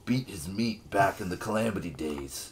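smooth flirty bard voice; lightly voiced seductive bard; Cass sexy bard voice. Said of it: "can you give him a sexy bard voice?".

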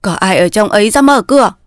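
mildly heated call at the gate; impatient calling. Acted. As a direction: demand entry with growing impatience. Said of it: "Ông già càng nóng nảy". (nóng nảy gọi cửa)

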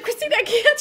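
high, loud mock wail; imitated panicky complaint; pleading mom. Retelling mom's pained pleading.

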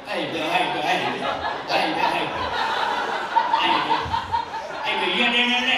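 garbled hick greeting, words run together; mock drunk redneck calling a friend. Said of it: "drunk redneck midgets".

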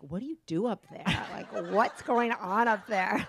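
put-on curious kids. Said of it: "they're like".

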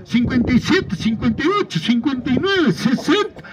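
rhythmic auction chant calling bids; spanish auctioneer. Acted. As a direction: call out each rising bid in turn. Counting up bids live.

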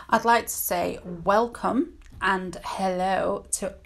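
talking over barking dogs; dog barking in background. Real, not acted. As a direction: dogs bark behind the voice. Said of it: "Please ignore the dogs barking".

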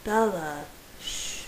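gentle hush, sinking to a soft shh; tender calming murmur; soothing. A narrator's reading. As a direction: soothe her, then hush her softly. Soothing the distressed wife.

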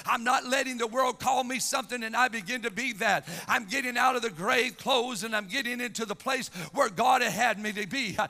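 energetic, emphatic sermon cadence; impassioned preaching. Real, not acted. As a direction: drive the Bible story home from the pulpit. Preaches with force.

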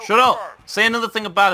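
sharp irritated yell; angry shout. Real, not acted. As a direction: snap it out high and loud. Annoyed at teammate's insult.

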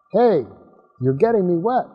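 calling out. Acted. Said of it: "Apollo called out".

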